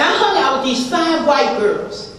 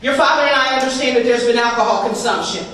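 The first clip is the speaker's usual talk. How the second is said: Rebecca's mother. Retold or imitated. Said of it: "Rebecca's mother says".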